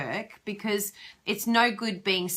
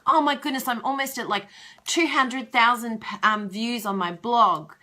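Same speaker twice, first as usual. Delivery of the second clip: mock excited; 3 semitones higher, 4 dB louder than usual. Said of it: "He's like".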